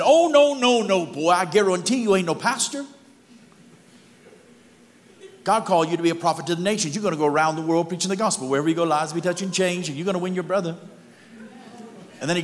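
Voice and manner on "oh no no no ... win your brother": very high, loud, fast Cajun preaching; prophesy over him in a booming Cajun holler; loud Cajun prophecy. Retold or imitated. Cajun stranger prophesies to the janitor, loud high fast Cajun. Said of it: "He said".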